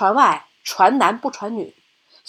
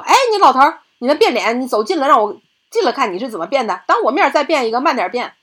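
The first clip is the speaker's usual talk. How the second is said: bandit demand; 4 semitones higher than usual. Acted. 土匪逼老人变脸.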